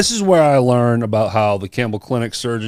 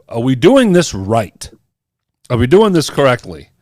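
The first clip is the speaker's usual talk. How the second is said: retold worry, a bit louder; anxious questioning; 2 semitones higher, 5 dB louder than usual. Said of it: "anxiety is high 'cause I'm like".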